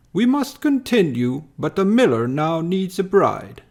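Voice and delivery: lightly voiced greedy rulers; scheming overlords. Pleiadians speaking again.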